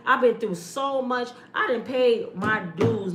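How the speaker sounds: slow, preaching cadence; preachy testimony. Real, not acted. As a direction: testify it slowly like in church.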